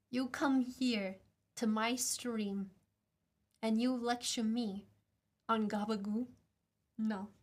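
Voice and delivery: mock Italian American. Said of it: "we're all Italian today".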